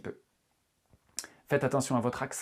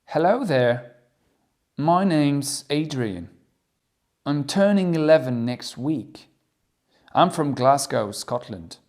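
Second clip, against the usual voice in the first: louder, slow schoolboy self-introduction; child's introduction; 7 dB louder, slower than usual. Acted. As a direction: introduce yourself like an eleven-year-old. Teacher reads character as Adrian. (Adrian, écolier, se présente fort et lentement)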